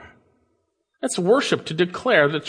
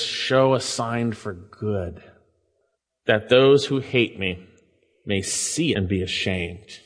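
humble petition; 4 semitones lower, slower than usual. Retold or imitated. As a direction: ask gently, not as a test. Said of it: "He's not testing God".

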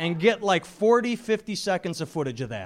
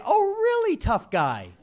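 mocking sarcasm; 13 semitones higher than usual. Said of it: "you just say".

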